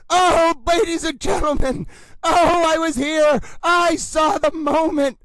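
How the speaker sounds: lightly hammed-up boxing announcer, ladies and gentlemen; hype announcer. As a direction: sell every line like a title fight.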